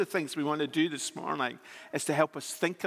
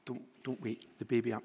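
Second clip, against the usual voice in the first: speaking quietly; 3 semitones lower, 5 dB quieter than usual. Real, not acted. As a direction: keep it low and hushed. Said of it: "I'm gonna speak quite quietly".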